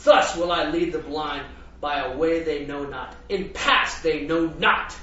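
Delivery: emphatic scripture reading. Acted. Preacher reads Isaiah to the congregation with booming emphasis. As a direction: proclaim it like a war cry, then hush. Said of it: "to present the way the poet ... presents it".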